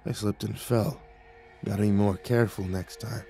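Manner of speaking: soft, groggy repetition; dazed mumble. A narrator's reading. Dazed guard echoing the nymph, mumbling. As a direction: mumble it back as if entranced. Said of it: "dazed expression and mumbled".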